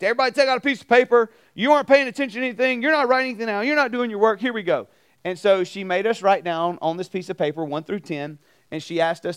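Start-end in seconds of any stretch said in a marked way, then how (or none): 0.0-4.9 fast, louder scolding teacher; angry teacher. Retold or imitated. Teacher snapping at a class that isn't paying attention, fast and louder. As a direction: rattle it off like a fed-up teacher. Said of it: "she's like".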